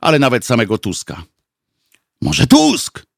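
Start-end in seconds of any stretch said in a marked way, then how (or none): 2.2-3.0 higher, tentative sighed question; sighed suggestion. A narrator's reading. Someone in the back rows suggests a name, sighing. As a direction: offer it as a wistful sigh. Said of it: "westchnął ktoś z dalszych rzędów".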